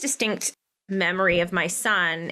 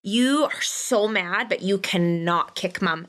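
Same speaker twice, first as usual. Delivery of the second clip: calm firm; slower than usual. Retold or imitated.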